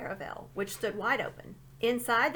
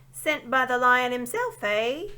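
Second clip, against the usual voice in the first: put-on booming, raised old dwarf voice; a deaf old dwarf shouting his grievance; shouting old dwarf who can't hear; loud old dwarf; 4 semitones higher, 9 dB louder, slower than usual. A narrator's reading.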